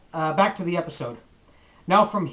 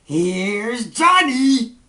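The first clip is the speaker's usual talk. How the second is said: horror movie quote; 4 semitones higher, 5 dB louder, much slower than usual. Pretend. Echoing the clip's horror movie line.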